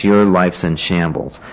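slow, emotionless verdict; deadpan, matter-of-fact put-down; no emotion. Retold or imitated. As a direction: state it slowly with no feeling. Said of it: "no emotion to it".

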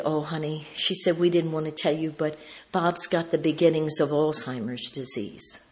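soft, understated confiding; gentle bad news. Wife telling a friend of husband's illness, gently. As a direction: break it to a friend softly.

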